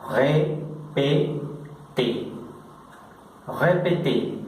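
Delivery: "répété" said slowly the French way, with a French r and both é closed; French pronunciation. Shown as a demonstration. Teacher modelling a French verb form for the class, French "répété". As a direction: stretch out "répété" in French, closed é each time. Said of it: "Pronunciaríamos".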